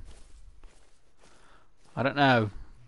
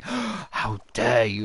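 indignant sister; 7 dB louder, much slower than usual. Pretend.

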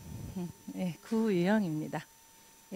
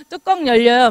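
loud, blunt mock outburst; imitating a hot-tempered client, louder; mock fuming; 2 semitones higher, 9 dB louder than usual. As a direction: blurt out your rage, hammed-up. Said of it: "막 이렇게".

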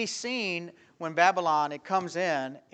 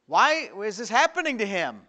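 high, loud pleading question; preacher crying out why; loud raised question; 6 semitones higher, 8 dB louder than usual. Real, not acted. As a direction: throw the question out to the congregation. Preacher's rhetorical shout.

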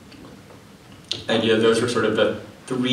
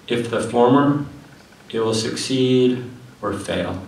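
measured declaiming with pauses between phrases; poetry reading. Acted. Poet reads Red Epic to an audience, poetry reading. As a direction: read it out as verse, each line set apart. Reads next poem aloud.

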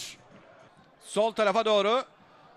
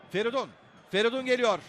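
ordinary delivery

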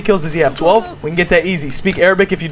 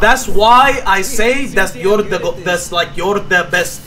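put-on halting broken English in a thick foreign accent; slower than usual.

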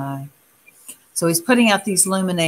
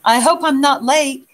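puffing; 7 semitones higher, 3 dB louder than usual. A narrator's reading. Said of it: "Picari was puffing from her climb".

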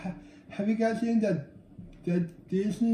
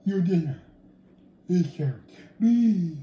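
imitating Timon; 3 semitones lower than usual. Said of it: "Timon said".

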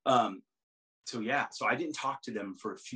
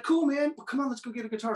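much higher, louder buddy voice; imitating Vince; 13 semitones higher, 4 dB louder than usual. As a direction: hype him up like a chummy rock star. Vince invites, acted quote.

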